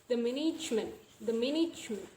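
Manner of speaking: "management" with "ge" shortened; reduced G E. Shown as a demonstration. Teacher demonstrating omission, "management" said with the G E reduced. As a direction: squeeze the "ge" in "management". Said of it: "So we don't pronounce G".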